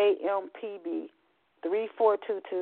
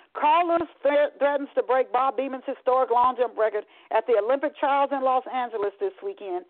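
lively TV sports announcer; sportscaster voice; 5 semitones higher than usual. Acted. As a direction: call it like a sports anchor. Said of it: "an E S P N sportscaster announced".

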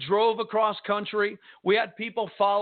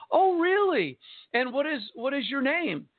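high, curious imitation of a woman; retold surprise, leaping up on the first question; surprised interest; 5 semitones higher than usual. Woman learning the husband is a pastor, imitated surprise.

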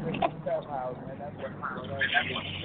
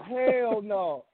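raised-pitch, disbelieving protest; incredulous refusal; 5 semitones higher than usual. Retold or imitated. Teller replaying his reaction for friends, incredulous. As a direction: act out balking at the sight.

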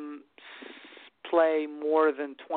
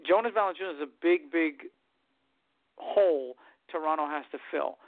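choppy, cutting out call audio; bad connection, words dropping out; radio breaking up. Real, not acted. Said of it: "you're breaking up pretty bad".

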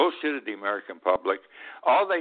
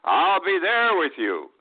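mocking Trump quote; 9 semitones higher, 4 dB louder, slower than usual. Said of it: "Remember, he wasn't there".

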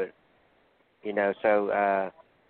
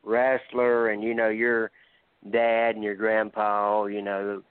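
trash-talking wrestler promo; lightly voiced heel promo; wrestling promo. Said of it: "I'm gonna cut a promo".

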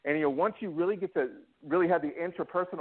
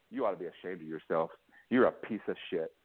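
imitating prison guard; 9 semitones lower than usual. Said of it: "the C O told me".

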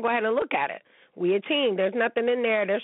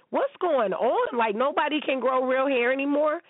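exasperated disbelief; 3 semitones higher than usual. Real, not acted. Ranting about fake wigs.

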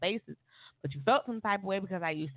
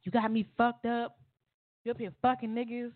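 higher, mock angry boyfriend; jealous accusation; 7 semitones higher than usual. Boyfriend bursting in, mock angry and higher. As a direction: throw the accusation at her. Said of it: "turns the lock to the door and was like".

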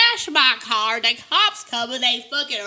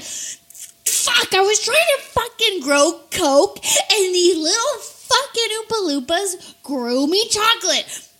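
mock Willy Wonka; 7 semitones higher than usual. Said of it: "He's like".

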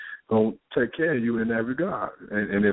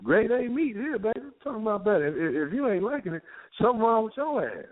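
boastful man; 11 semitones higher than usual. Retold or imitated. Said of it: "He said".

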